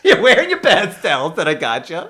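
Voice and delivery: loud, high mock scolding; hammed-up wife laying down the law; bossy wife. Wife acted bossing the husband.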